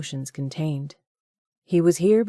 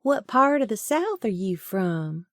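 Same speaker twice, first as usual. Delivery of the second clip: put-on Southern accent; 5 semitones higher than usual. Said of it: "mimicking his accent".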